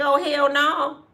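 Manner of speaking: firm, stern, flat fatherly tone. Speaker recalls her dad refusing to let her stay in L A: imitating her dad refusing. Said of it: "And my daddy was like".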